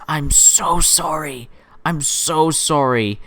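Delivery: slow breathy whisper of mock pity; whispered apology. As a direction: whisper it slowly, like consoling a mourner.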